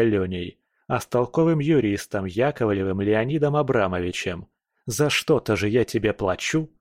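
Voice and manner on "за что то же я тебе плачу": snort. Acted. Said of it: "фыркнул я".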